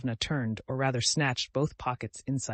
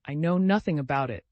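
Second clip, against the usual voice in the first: wailing; 3 semitones higher, 4 dB louder than usual. Acted. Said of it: "she cried with a heartrending wail".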